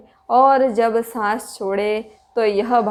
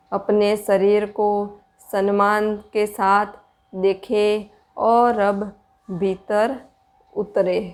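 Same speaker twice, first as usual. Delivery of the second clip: measured, even-toned meditation guidance with long pauses; spacious, steady meditation voice; guided meditation. Real, not acted. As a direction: guide listeners inward in unhurried phrases.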